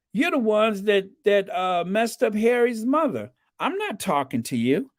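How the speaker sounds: put-on high, fast Chicano accent; imitating an East LA guy. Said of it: "very strong East L A accent".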